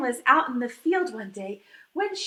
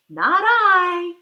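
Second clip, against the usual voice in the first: a loud, blunt "no" from the duck; loud refusal; 3 semitones higher, 9 dB louder than usual. Acted. Duck refusing to help the little red hen, loud blunt refusal. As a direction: bark it out, flat refusal.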